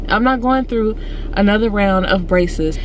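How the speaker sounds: slushy sh for s; talking through a retainer; retainer lisp. Real, not acted. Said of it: "I sound like a five-year-old".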